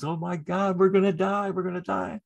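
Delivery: hammed-up doomsday wail at modest volume; mock panicked scream. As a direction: imitate someone crying out in terror, half-voiced. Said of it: "screaming at the top of his lungs".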